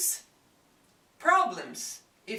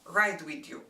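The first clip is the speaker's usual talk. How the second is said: a firm, slightly louder warning to a careless driver; mock-serious threat; stern warning; 4 dB louder than usual. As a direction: warn them you won't ride along. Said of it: "And this is my warning".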